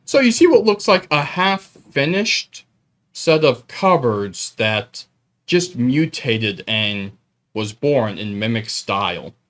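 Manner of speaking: slow, measured scene-setting; game master narration. Acted. Game master describing a cupboard monster to the players, slow narration. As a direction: describe the monster slowly, phrase by phrase.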